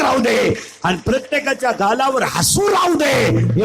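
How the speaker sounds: rousing kirtan invocation with drawn-out line endings; declaimed prayer. Real, not acted. Kirtan preacher praying for farmers and faith, declamatory. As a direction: call out each wish to the crowd.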